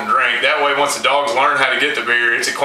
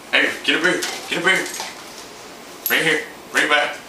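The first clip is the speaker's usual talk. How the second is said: eager, coaxing call to fetch the beer; excited tone; 3 semitones higher, 4 dB quieter than usual. Shown as a demonstration. Trainer urging his dog to fetch the beer, eager coaxing tone. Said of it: "Use an excited tone of voice".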